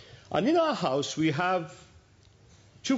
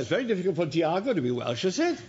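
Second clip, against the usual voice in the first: teasing doubt; 4 semitones higher, faster than usual. Retold or imitated. Grandfather's teasing question.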